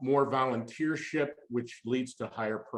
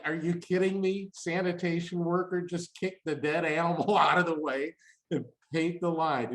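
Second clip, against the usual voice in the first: higher, incredulous rant with a laugh; mock disbelief; 3 semitones higher than usual. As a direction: act out your own outrage at the roadkill photo, half laughing. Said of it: "I'm like".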